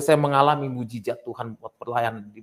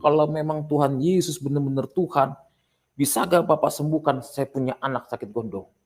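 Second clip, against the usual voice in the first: higher-pitched imitated challenger; mildly acted challenge in a raised pitch; 6 semitones higher than usual. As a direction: put a retold dare to the pastor.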